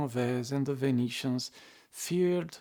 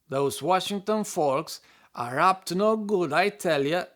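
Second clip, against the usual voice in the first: put-on southern accent; 3 semitones higher, 6 dB louder than usual. Townsfolk gossip about Washington, in a put-on Southern accent. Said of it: "That was my southern accent".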